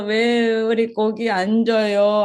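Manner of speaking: slow, drawn-out mock crying whine; put-on weepy grievance, dragged out; imitated tearful complaint. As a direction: mimic people wailing and grumbling, stretching the words. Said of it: "민수기에서 울면서".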